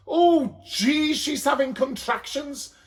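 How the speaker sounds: very high, loud cry; panicked scream. A narrator's reading. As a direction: yell it in alarm. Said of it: "screams at the top of her voice".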